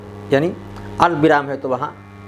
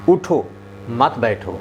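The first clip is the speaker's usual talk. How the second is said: "उठो" raised, break, then lower "मत बैठो"; pause after उठो; 3 semitones lower, slower than usual. Shown as a demonstration. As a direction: read a comma after "उठो", dropping on "मत बैठो". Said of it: "अब इसको पढ़ेंगे".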